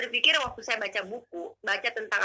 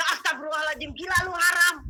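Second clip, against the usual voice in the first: raised, indignant retort, re-enacted; angry; 6 semitones higher, 4 dB louder than usual. Woman snapping back at an unseen voice, angry. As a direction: act out a loud flare of anger. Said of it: "marah sebelum saya ambil Alkitab".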